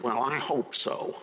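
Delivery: slow, mocking imitation of faint hope; mock doubtful hoping. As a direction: drag it out like someone half-hearted. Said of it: "It's not".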